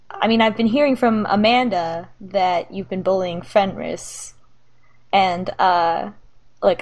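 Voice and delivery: hesitant, mildly awkward dad; awkward sincerity. Acted. Dad confronting daughter about bullying and detention, halting and awkward. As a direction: stumble and restart through the hard talk. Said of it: "he's a little awkward about saying this".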